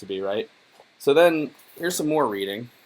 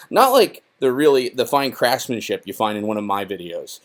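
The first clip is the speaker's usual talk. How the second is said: sarcastic; 4 dB louder than usual. Real, not acted. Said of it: "That was sarcastic".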